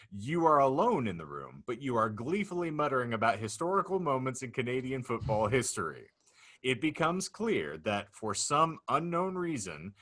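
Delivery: deliberate, mock-grave narrator hitting key phrases hard; dramatic scenario reading. Real, not acted. Host unfolds the Canadian football future to laughing guests, dramatic narrator. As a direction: announce each absurd detail with ceremony. Reads out the hypothetical.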